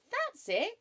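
high, loud triumph; excited cry. A narrator's reading. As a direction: celebrate the success. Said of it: "cried Noah".

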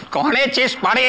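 insistent demand. Acted. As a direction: draw out "કોણે ચીસ પાડી" as an interrogation. Demands again who screamed.

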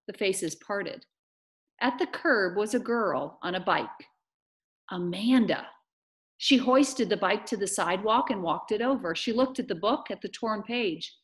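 expressive storybook telling; story narration. A narrator's reading. Teacher reads Amanda's arrival to the class, story narration. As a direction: reveal the newcomer to young listeners.

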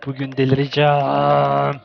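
"Bugün delireceğim" stretched out slowly, every syllable long; slow, drawn-out mock despair; slow drawn-out repeat. Shown as a demonstration. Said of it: "repeats slower".

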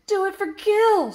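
high, loud cheer; urging call. A narrator's reading. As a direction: call out to spur a swimmer on. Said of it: "Stripes called".

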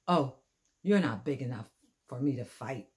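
dismissive brush-off. Acted. Grouchy ladybug backs down.

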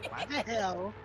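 put-on little boy voice. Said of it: "this little baby boy say".

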